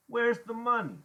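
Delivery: high, loud interrogating question; sharp demand. A narrator's reading. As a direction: press him hard for it. Iggy demands money.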